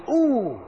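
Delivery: a mild pained "Ooh". Shown as a demonstration. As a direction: wince it out. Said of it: "Some will say".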